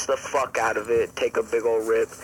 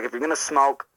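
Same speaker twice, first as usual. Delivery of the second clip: mildly heated imitation of a lecturing mom; mom going off; 2 semitones higher than usual. Mom warning son about smoking indoors, mock scolding. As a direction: lay down the law in a slightly raised voice. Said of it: "totally went off on me".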